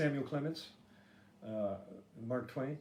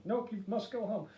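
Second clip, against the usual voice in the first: official; 11 semitones higher than usual. Retold or imitated. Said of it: "the last thing I heard is like".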